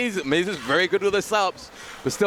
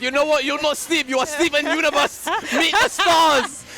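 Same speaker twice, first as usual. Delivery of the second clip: dramatic player voice; 9 semitones higher, 4 dB louder than usual. Retold or imitated. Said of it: "and said".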